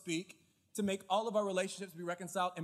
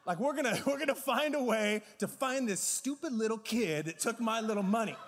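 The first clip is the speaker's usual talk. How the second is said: loud, raised voice, a touch of retold fury; vowing revenge on the scammer, loud and furious; 4 dB louder than usual. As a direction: rant at the scammer, half laughing. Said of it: "I was so furious".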